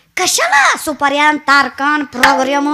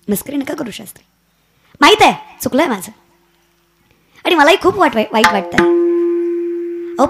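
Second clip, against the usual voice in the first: frail dying drummer; 5 semitones lower than usual. Acted. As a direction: plead from a sickbed, barely holding on. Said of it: "सोनबा म्हणताय".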